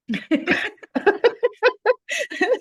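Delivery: long, high peal of laughter; real laughter. Real, not acted. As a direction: laugh heartily at your own joke. Laughs at her own joke.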